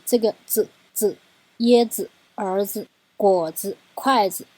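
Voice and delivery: 子 in each word short and quick; teaching list of light 子 endings; neutral tone demo. Shown as a demonstration. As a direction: run through 椰子 儿子 果子 筷子 with a light 子. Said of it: "都很短很快".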